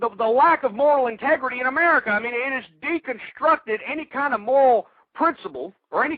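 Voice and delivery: ranting shout. Real, not acted. Host rants to listeners about Hollywood, loud and angry. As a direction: vent full fury at Hollywood. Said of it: "That's why I'm screaming".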